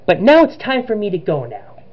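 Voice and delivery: put-on high, amateur Italian accent; bad Italian accent, starting high and falling away; Luigi. Villain bids Richard farewell in a cutscene, put-on Italian accent. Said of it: "I did a bad Luigi voice".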